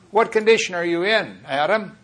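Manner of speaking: rough, demanding version of God's question; roughly. Shown as a demonstration. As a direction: press him hard with the question. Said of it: "I'm saying it kind of roughly".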